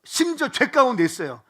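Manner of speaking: fervent preaching. Acted. Pastor to congregation in slump, loud fervent preaching. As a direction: preach it out to the whole hall, fired up.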